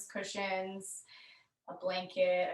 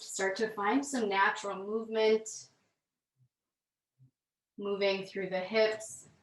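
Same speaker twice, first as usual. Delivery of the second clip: calm, measured yoga-class delivery with long pauses; guided yoga instruction; 3 dB louder than usual. Real, not acted. Yoga teacher leading students through gentle movement, calm guided instruction.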